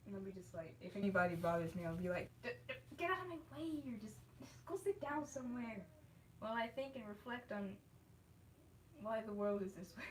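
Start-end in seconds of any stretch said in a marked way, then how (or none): 2.4-10.0 high, fast, mock-grumpy grumble. To anyone who bothers her, a hammed-up grumpy brush-off. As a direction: pretend to be grumpy and shoo people off. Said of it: "I'll just get grumpy".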